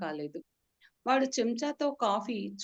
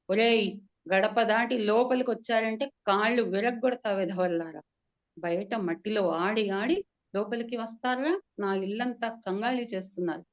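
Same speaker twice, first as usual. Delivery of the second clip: louder threatening scold; 3 dB louder than usual. Acted. Scolding the servant's boys for dirtying the house, angry yell.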